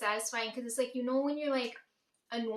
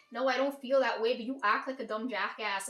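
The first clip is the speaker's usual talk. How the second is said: retold angry retort; 5 dB louder than usual. Retold argument with her aunt.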